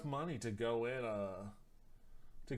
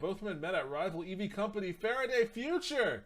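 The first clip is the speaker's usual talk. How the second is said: put-on German accent; 7 semitones higher, 6 dB louder than usual. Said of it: "I gotta stop doing my German".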